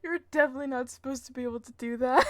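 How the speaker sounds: talking through giggles; fast, amused protest; laughing. Real, not acted. Still laughing about glitch.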